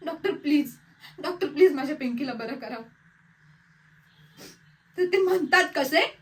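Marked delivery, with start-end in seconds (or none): 0.1-2.8 desperate acted plea; pleading. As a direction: beg the doctor, fading at the end. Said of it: "डॉक्टरांना विनवणी केली".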